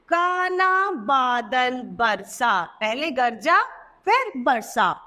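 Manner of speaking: put-on slow, word by word reading for children; slow reading aloud. Shown as a demonstration. Teacher reading a sentence aloud to pupils. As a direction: read it slowly and clearly. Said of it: "अगला है".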